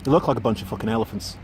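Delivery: attempted Irish accent. Auditioner repeating the line for his Irish coach, attempted Irish accent. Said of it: "gonna do this Irish one".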